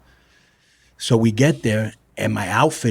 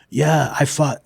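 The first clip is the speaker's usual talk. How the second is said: higher-pitched, lightly mocking boast; mocking fan impression; 5 semitones higher, slower than usual. Wrestler making fun of the fan's claims, light mocking imitation. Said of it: "used to make fun of him".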